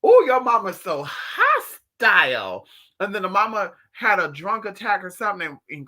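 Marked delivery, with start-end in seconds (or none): 0.0-2.7 mock shock. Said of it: "And I'm just like".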